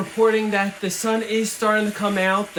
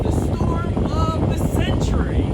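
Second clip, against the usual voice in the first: yelling over helicopter noise; 10 semitones higher, 4 dB louder than usual. Acted. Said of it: "It's very loud in here".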